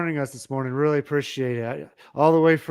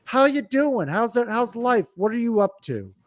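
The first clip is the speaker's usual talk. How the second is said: casual greeting; 7 semitones higher than usual. Retold or imitated. Voicing friendly family chat.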